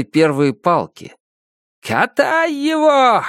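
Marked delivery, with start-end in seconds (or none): 1.8-3.2 high, drawn-out bellow; officer shouting to the soldiers, high and slow; shouting at full throat. A narrator's reading. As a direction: yell the order across the ranks. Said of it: "кричит во всё своё горло".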